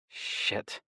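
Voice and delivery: breathy whispered curse. A narrator's reading. Narrator cursing under breath.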